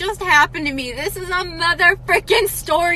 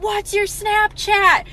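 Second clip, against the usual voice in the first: flirty guy; 6 semitones higher, slower than usual. Retold or imitated. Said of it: "He's like".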